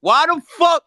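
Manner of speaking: indignant, insistent questioning; heated challenge. Real, not acted. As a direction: press the accusation, pitch climbing. Heated demand in an argument.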